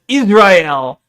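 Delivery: Israel said as "iz-rye-EL"; imitated pronunciation. Streamer arguing it is no coincidence, imitated pronunciation. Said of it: "you think it's a coincidence that she says".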